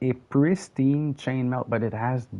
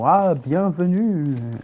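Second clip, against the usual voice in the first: slow, higher mock Parisian French accent; French from France accent; 6 semitones higher, 5 dB louder, slower than usual. Mocking the France French accent for listeners. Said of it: "and the little accent".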